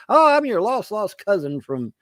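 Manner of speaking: high, wheedling fake-relative voice; mock long-lost cousin. Man mocking greedy relatives, in a high wheedling voice. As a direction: play the sudden cousin sucking up.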